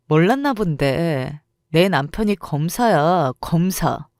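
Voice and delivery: slow, drawn-out smug threat with a scoff; smug slow boast. Acted. Rival smugly revealing her husband is a prosecutor, slow gloat. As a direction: savor the power you hold.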